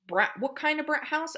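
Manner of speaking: put-on bright high question to a child; high modeling question. Shown as a demonstration. Therapist prompting child to expand, high and sing-song. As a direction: ask it up high and inviting. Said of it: "you could say".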